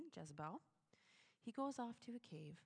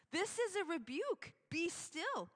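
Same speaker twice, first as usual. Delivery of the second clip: much higher and louder, commanding; stern rebuke; 9 semitones higher, 8 dB louder than usual. Acted. Preacher voicing God's rebuke, high and loud. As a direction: thunder it like a divine rebuke. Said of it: "fairly strong language".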